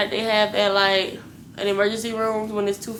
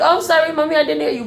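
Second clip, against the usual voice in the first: mocking staff; 7 semitones higher, 6 dB louder, faster than usual. Mocking staff's fake apology.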